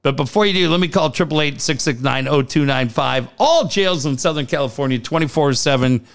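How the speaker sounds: quick host-read bail ad. Acted. Host reads jail bail ad to listeners, light ad voice. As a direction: rattle off the number like a sponsor spot.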